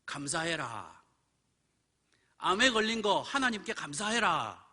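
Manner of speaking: retold solemn injunction; Holy Spirit's command. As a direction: voice a divine command, firmer the second time. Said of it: "성령께서 그러는 거예요".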